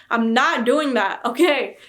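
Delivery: loud, drawn-out, insistent refusal; emphatic refusal. Real, not acted. Vlogger refusing a ten-hour challenge, emphatic refusal. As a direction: put your foot down, loudly.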